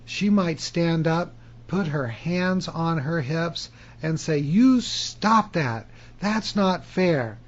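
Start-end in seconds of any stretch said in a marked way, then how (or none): 4.4-7.4 slow, mock-indignant child's protest; a little girl scolding a cheater, drawn out; angry little girl. Little girl at a board game, mock angry protest. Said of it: "She's angry and her face turns red".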